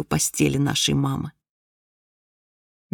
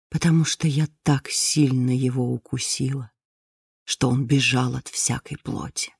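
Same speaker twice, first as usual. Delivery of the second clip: grim reaper voice; 3 semitones lower than usual. A narrator's reading. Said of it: "прошептал ей голос смерти".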